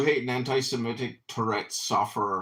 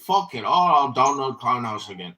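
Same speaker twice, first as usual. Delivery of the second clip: mock inner voice; 2 semitones higher, 3 dB louder than usual. Mocking his inner thoughts.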